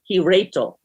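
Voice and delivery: "Rachel" said for "wrestle"; dialect pronunciation. Shown as a demonstration. Listener quoting Missus Grummick's wording, "Rachel" for wrestle. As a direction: say "Rachel" where the character means wrestle. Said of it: "her words are spelled out".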